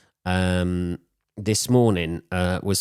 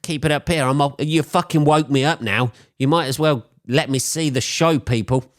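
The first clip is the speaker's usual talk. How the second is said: higher-pitched, mock-indignant urging; acted inner plea; 6 semitones higher, 3 dB louder than usual. Woken-up neighbour at the window willing the couple to stay, mock-indignant plea. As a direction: plead silently with the squabblers, pitched up.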